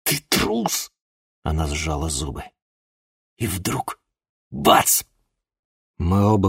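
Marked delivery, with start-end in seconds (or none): 0.0-0.9 scornful. Acted. Chloe scorns the hero.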